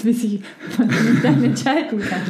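laughing through the words. Real, not acted. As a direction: chuckle mid-sentence. Laughs at own indecision.

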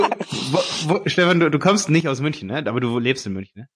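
ordinary delivery

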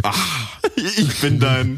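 Darth Vader voice. Acted.

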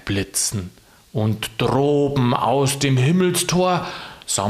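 slow, drawn-out Saint Nicholas voice; dramatic poem recitation. Acted. Nikolaus reciting Knecht Ruprecht's poem to Sigi, slow and dramatic. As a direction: recite it solemnly, stretching the words. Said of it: "Weil du das jetzt so dramatisch".

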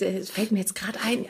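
whispered aside. Real, not acted. Sudden memory muttered aside.

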